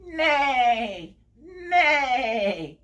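long, falling horse whinny; drawn-out imitation neigh. Shown as a demonstration. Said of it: "What does the horse say?".

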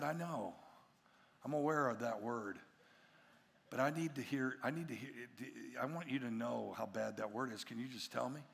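low, soft reassuring voice; acted gentle father, voice dropped; hushed coaxing. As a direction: coax a child quietly and confidentially. Father gently coaxing son in secret.

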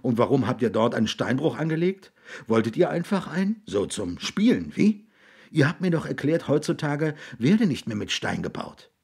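slightly agitated questioning, pitch jumping up; agitated man. Acted. William challenges the boys about the quarry, agitated. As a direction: demand an explanation, a touch agitated.

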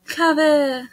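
drawn-out mock French; hammed-up French charmer with a thick accent. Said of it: "I don't know how to speak French".

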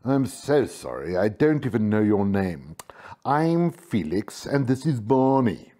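polite cat introducing himself. Acted. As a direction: politely stall for time. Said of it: "asked politely".

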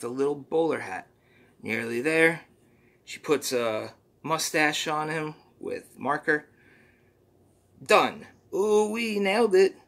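a hint of the squeaky sidekick, earnest; understated cartoon helper voice; lightly voiced Poopy Butthole. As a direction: plead for help gently. Mister Poopy Butthole plotting.

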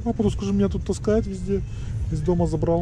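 high voice speaking for the dog; voicing the dog. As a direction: talk as the dog would. Voicing the dog's words. (голос за собаку)

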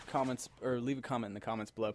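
tipsy, rushing the words. Real, not acted. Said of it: "you can tell I've been drinking".

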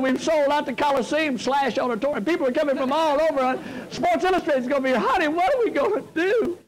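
hammed-up panic pleading with his wife; mock panic. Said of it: "I started crying".

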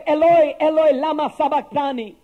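Eloi called out loud, then falling away; loud cry. Acted. Jesus crying out from the cross, loud then sinking. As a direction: cry out the Aramaic words to God. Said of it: "cried out in a loud voice".

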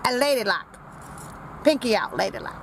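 talking while chewing a cookie; words round a bite of food; mouth full. Real, not acted. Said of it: "Don't be talking with your mouth full".

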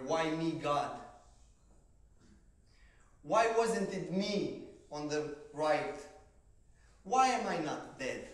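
loud, high, slow cry to God; anguished plea. Retold or imitated. Asking God why he survived, loud and anguished. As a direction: plead with heaven, raw. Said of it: "my questions were".

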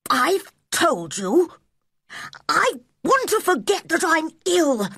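prince's voice. Acted. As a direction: command like a spoiled little prince. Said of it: "in his prince's voice".

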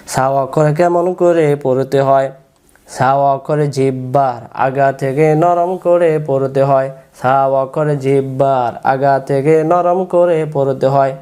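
slow, measured rule recital with stretched syllables; memorisation recitation. Shown as a demonstration. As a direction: recite it slowly so pupils can memorise it. (ধীরে টেনে টেনে মুখস্থ পড়ানো)

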